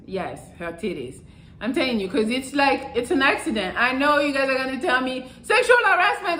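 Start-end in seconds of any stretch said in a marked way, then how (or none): 5.4-6.4 high, loud mocking cry; mock outrage. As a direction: parody the scolding crowd. Mocking viewers' objection.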